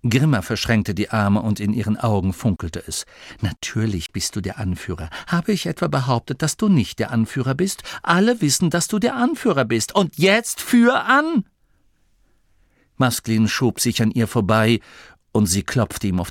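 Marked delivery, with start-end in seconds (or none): 3.4-11.5 exasperated scolding. Acted. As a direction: build impatiently into a final order. Grimma weist den Anführer zurecht. (gereizt, zum Befehl ansteigend)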